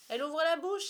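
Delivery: high, loud outburst; thrilled boy spotting a wonder; excited exclamation. A narrator's reading. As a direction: cry out in amazement. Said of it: "s'exclama un troisième".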